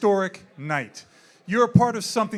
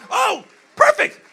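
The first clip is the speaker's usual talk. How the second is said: sarcastic surprise; 11 dB louder, slower than usual. Real, not acted. Handed the wrong sheet.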